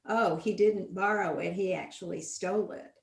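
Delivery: "didn't" then "stole" stressed. Shown as a demonstration. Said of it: "stressing the words in a sentence".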